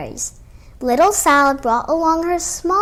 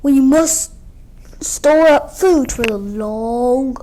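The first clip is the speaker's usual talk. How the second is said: slow, breathy whispered mother bear; 4 dB louder, slower than usual. Acted. Bear mother urging her cub to eat for winter, slow and hushed. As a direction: coax the cub slowly.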